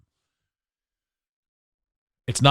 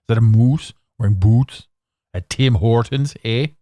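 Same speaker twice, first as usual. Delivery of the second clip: put-on Canadian accent; 2 semitones lower than usual. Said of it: "Do I have an accent?".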